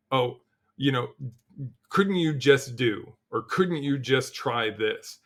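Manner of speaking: slow, drawn-out patronizing question; condescending suggestion. Retold or imitated. Leader mocking a phrase he has dropped, slow and patronizing. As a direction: lean on it like a know-it-all colleague. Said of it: "removed kind of from my vernacular".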